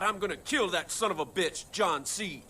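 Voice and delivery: ordinary delivery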